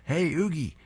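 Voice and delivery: high excited call to the cat. A narrator's reading. Ralph excitedly calling his cat, high and eager. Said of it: "excitedly runs up".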